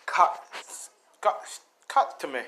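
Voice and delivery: mild call of a sword's name. Acted. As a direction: call it out with a slight push. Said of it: "he calls out his sword".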